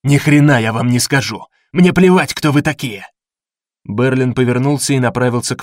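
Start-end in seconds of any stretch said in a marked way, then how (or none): 0.0-3.1 loud, defiant yelling; defiant shout. Acted. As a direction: shout the refusal in fury. Wounded man defies interrogators.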